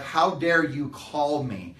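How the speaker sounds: put-on slow, mildly offended teen; mock indignant. Teen daughter scolding dad for calling, slow mock offense. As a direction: drag it out like the call is an insult. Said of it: "as if I have put her totally out".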